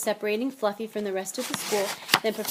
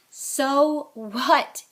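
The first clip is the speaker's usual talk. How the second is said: loud, higher defiant retort; shouted; 5 semitones higher, 9 dB louder than usual. A narrator's reading. Harry defying his friends' warning, shouted. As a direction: throw it back loudly. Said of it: "Harry shouted".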